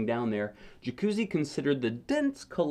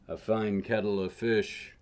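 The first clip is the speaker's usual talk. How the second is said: grandfather's saying; 3 semitones lower than usual. A narrator's reading. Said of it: "grandfather ... said".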